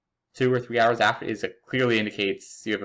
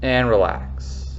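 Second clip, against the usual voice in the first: slow, soothing exercise cue; slow calm cue; much slower than usual. Shown as a demonstration. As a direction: draw out the relax gently. Guided exercise relaxation cue.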